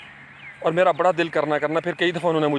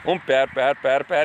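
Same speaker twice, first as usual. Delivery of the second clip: ox-driving calls; 3 semitones lower than usual. Retold or imitated. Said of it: "وہ آوازیں نکالتے تھے".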